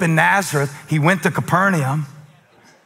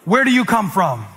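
louder prompt; 3 semitones higher than usual. Shown as a demonstration. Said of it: "Y'all didn't say it in the room".

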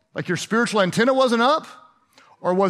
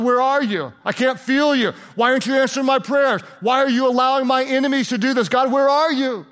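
higher, urgent pleading questions; crying out; 4 semitones higher than usual. Acted. David crying out to God over unanswered prayers, crying out. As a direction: fire anguished questions up at God. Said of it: "he cried out to God".

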